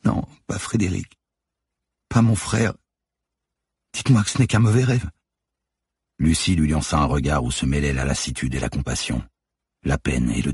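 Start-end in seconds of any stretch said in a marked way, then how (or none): 0.0-5.1 high, pleading moan of distress. A narrator's reading. Manon refusing to believe it about her brother, moaning. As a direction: moan it out in disbelief, voice raised high. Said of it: "dit en gémissant".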